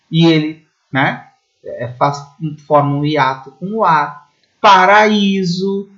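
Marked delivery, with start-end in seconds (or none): 4.6-5.9 Paraíso drawn out slowly, stressed I apart from the A; I standing alone. Shown as a demonstration. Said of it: "também o I fica sozinho". (Paraíso devagar, com o I sozinho na sílaba)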